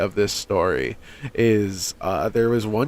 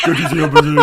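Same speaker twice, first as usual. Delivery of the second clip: laughing shout; 7 semitones higher, 5 dB louder, much faster than usual. Real, not acted. Yelling, laughing.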